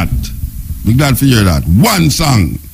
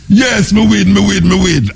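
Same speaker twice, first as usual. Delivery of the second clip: retold enthusiasm; 6 semitones higher than usual. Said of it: "you call me so enthusiastic".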